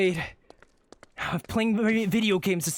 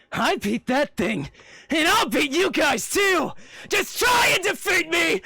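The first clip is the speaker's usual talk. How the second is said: cocky taunt; 7 semitones higher, slower than usual. Acted. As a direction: dare them to come at you. Hero taunts the fleeing enemies.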